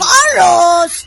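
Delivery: loud, drawn-out name in reproach; exasperated. Acted. Friend fed up with boy's boasting, exasperated. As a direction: scold with the name alone.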